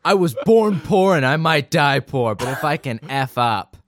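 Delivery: light Viking warrior reading; larpy Viking voice. Acted. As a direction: read it like a hammy Viking. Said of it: "in some sort of, like, larpy Viking voice".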